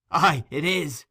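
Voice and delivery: high, loud screamed words; vehement scream. Acted. Nancy screaming her life at Fagin. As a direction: pour it out in one scream. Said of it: "one continuous and vehement scream".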